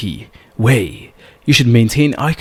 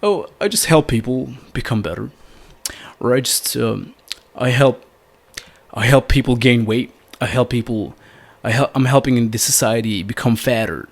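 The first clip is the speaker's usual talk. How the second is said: playful joke; 3 semitones lower, 4 dB quieter than usual. Shown as a demonstration. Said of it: "You can just say something like".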